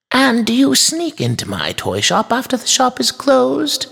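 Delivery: very high, pointed questioning; stern toy maker. A narrator's reading. Toy maker questions trespassing girls, stern. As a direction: scold through a leading question. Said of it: "He had a stern tone".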